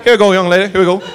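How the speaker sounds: light folksy escorting patter; suave Southern cop. Retold or imitated. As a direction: usher someone along like a jaunty Southern officer. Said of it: "Like a little do-si-do".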